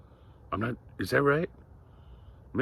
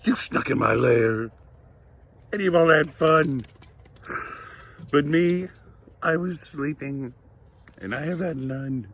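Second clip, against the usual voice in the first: lightly voiced sulky bear, higher and loud at first; grumbling bear; 5 semitones higher, 5 dB louder than usual. A narrator's reading. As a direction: complain like a put-out bear, easing off. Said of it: "He is a grumbling".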